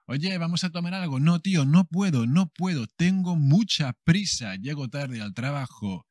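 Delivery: fast, loud rushed no; rushed brush-off; hurried refusal. Acted. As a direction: brush off a friend while running late.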